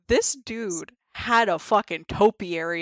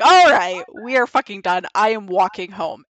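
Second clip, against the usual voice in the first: loud, firm we're done; retold loud final refusal; fed-up declaration; 6 dB louder than usual. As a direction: shut it down for good. Ending the hookup.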